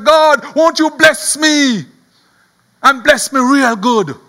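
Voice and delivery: slow, emphatic acted plea; crying out. Jabez crying out to God for blessing, imploring. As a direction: call on God, stretching the words. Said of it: "he cried out to God".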